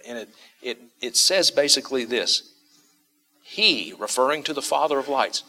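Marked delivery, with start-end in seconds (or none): 3.4-3.9 HE set apart, standing alone; emphatic. Acted. Preacher showing the Greek's extra pronoun, emphatic. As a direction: lean on HE as its own statement. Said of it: "really an emphatic statement".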